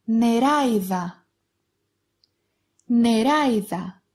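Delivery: "νεράιδα" with άι gliding, stressed on the ά; "νεράιδα" as a word demo, ah-ee in one syllable; diphthong in word. Shown as a demonstration. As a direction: model "νεράιδα" carefully as ne-RAI-tha. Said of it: "You can recognize this diphthong".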